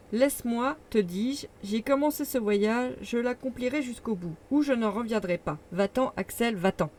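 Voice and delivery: mildly agitated, insistent uncle; a touch of fevered command; overexcited. Acted. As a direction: drive him away with feverish insistence. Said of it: "parlait avec une extrême surexcitation".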